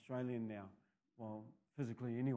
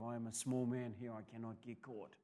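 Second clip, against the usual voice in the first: much softer, shrinking inner voice; small and scared; 4 semitones lower, 7 dB quieter than usual. Retold or imitated. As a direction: hush it like a teen hiding from cops. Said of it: "a real sense of".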